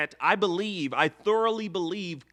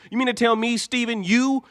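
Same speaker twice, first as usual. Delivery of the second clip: higher and louder, incredulous; outraged fan scolding Steven; exasperated scolding; 7 semitones higher, 4 dB louder than usual. Real, not acted.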